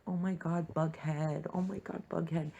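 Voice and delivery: high, breathy squeal over a ship; squealing fangirl. Pretend. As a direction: gush like a fan over Bughead.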